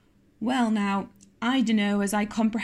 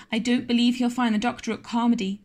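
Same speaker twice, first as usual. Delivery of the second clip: mild sobbing; 3 semitones higher, 3 dB louder than usual. Acted. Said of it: "sobbed Diana".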